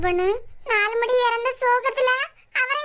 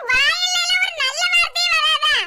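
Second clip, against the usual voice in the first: loud exasperated scold; angry scolding; 4 semitones higher, 4 dB louder than usual. Acted. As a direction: snap at him for talking of death. Scolding husband about death talk.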